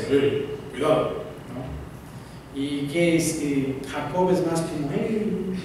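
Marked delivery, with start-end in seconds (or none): 0.1-1.2 a hint of a thick, rough hunter's voice; gruff hunter voice. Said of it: "Una voz gruesa". 4.9-5.5 a softer, easygoing little "Hey"; calmer Jacob voice. Retold or imitated. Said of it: "quizás más tranquilo".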